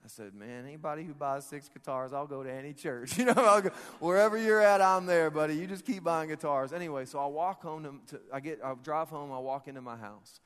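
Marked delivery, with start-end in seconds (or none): 0.3-6.7 eager reply building to a big, loud burst; eager agreement. Retold or imitated. His eager reply, breaking into laughing shout.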